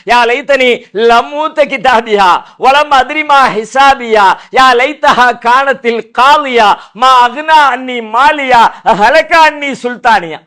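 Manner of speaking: measured, drawn-out Arabic recitation; lamenting verses recited slowly in Arabic; slow Quranic recitation. Acted.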